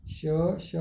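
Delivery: श said twice, tongue to palate; demonstrating sh sound. Shown as a demonstration. Teacher showing how श is pronounced. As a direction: repeat श slowly for the class. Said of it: "स के उच्चारण में बहुत थोड़ा अंतर है".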